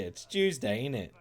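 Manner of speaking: high mock British "it's Tuesday, ain't it"; British accent. Streamer repeating the British joke with a light accent. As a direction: drop the T and tag the question. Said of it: "I don't say my L's or T's".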